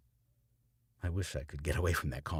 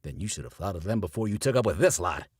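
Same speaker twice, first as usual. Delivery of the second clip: louder angry retort; yelling preacher; 2 semitones higher, 6 dB louder than usual. A narrator's reading. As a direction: shout him down. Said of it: "Carey yells".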